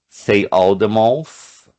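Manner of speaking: teacher instruction; slow instruction. Shown as a demonstration. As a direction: call out the task slowly. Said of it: "Ó".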